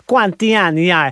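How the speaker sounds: hammed-up Italian accent, joking; mock Italian tourist accent, deliberately bad; a playful send-up of a bad Italian accent. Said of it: "doing an impersonation of a bad Italian accent".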